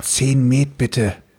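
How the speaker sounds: soft, quiet whisper. Ordering mead from the server for the group: whispering. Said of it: "ich flüster hier nur ganz leise ins Ohr".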